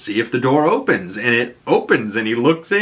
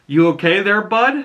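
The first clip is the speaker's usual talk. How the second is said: mock-kindly dad, pitched up; Augie; 9 semitones higher than usual. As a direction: lightly imitate an eerily nice father checking on his son. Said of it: "eerily creepy how nice this Augie is".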